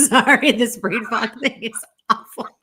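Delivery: high, loud giggly complaint; laughing apology. Real, not acted. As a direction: complain while cracking up. Cracking up over losing her thought.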